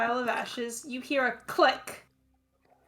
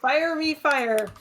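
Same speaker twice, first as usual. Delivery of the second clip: dramatic; 2 semitones higher, 5 dB louder, slower than usual. Acted. Dramatic line about fire damage.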